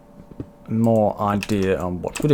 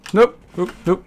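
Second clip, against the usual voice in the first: frustrated nope; 9 semitones higher, 4 dB louder than usual. Real, not acted. Villager wandering off, frustrated.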